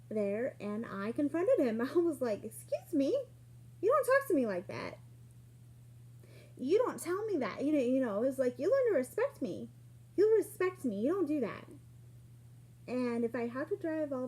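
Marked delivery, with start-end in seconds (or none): 2.4-11.7 firm confrontation. Retold or imitated. Retold confronting him at youth group.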